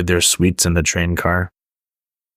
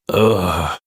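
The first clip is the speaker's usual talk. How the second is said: groan. A narrator's reading. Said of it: "Dash kept groaning".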